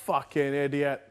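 slow, laughing mock insult; mock angry mate. Friend mimicking Jason's mock insult, slow and laughing. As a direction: growl it out as a joke. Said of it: "That's what he'd be like".

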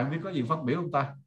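normal talking voice

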